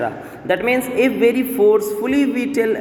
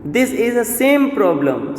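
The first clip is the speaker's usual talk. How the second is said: raised pitch, leaning firmly on "same"; emphasis on same; 4 semitones higher than usual. Shown as a demonstration. Teacher giving the problem example, "same" emphasized. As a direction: stress "same" in a higher voice. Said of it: "is emphasizingly said".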